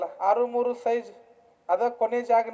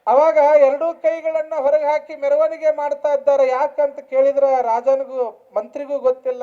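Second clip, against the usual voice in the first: raised, projected storytelling sermon voice; preaching; 4 semitones higher, 8 dB louder than usual. Real, not acted. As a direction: tell the parable out to the congregation. Preacher tells a parable forcefully. (ಪ್ರವಚನದ ಎತ್ತರಿಸಿದ ದನಿ)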